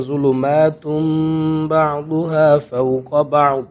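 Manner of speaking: ظلمات read straight into بعضها, slow chant; joined recitation. Shown as a demonstration. Teacher repeats the phrase joined together, slow chant. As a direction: carry ظلمات into بعضها without a break. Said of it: "اس کو بھی ہم ساتھ میں ہی پڑھیں گے".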